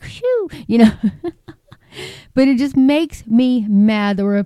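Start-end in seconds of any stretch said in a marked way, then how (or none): 0.0-0.5 a high, soft blowing-off-steam phew; mock exhale. Real, not acted. Sighing about high blood pressure, a high soft phew. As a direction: puff out air like a release valve. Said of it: "my blood pressure is like".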